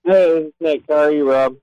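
loud, boomy, too close to the phone; swallowed voice. Real, not acted. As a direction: mouth right on the mic. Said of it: "it sounds like you swallowed your phone there".

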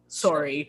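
"sorry" in the Canadian way; "sorry" with a Canadian O, as in "sore"; Canadian pronunciation. Shown as a demonstration. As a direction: show off a picked-up Canadian "sorry". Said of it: "I picked up that".

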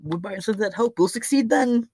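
high, sing-song mock voice of a hopeful Texan; mock the Texans waiting for help in a high silly voice; mock naive Texan. Podcaster mocks Texans waiting on Biden, high-pitched and silly. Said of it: "Y'all just sitting there waiting, like".

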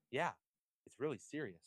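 monotone voice. Retold or imitated. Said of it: "monotone voice".

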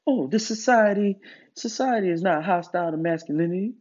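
lightly mocking naysayer voice; a hint of mimicked objection; mock objector. Mimics objectors he then contradicts.

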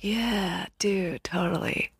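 lightly voiced stoner, half whispered; a hint of whispery California stoner. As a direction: agree like a laid-back stoner. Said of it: "California stoner".

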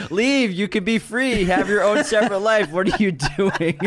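shrieking conjoined twin. Acted. Conjoined twin screaming at phones.

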